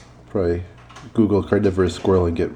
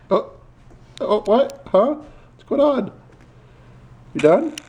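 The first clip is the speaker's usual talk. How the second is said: excited; 13 semitones higher, slower than usual. Real, not acted. Excited at squirrel.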